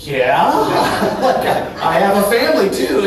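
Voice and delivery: high, loud, amused protest; incredulous comeback. Acted. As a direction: answer as if it were blindingly obvious. Acted reply to astonished employees.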